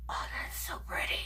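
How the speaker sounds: breathless whisper of delight; hushed, fast, marvelling; awed whisper. Real, not acted. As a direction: whisper it like you're in awe. Admiring makeup on stream.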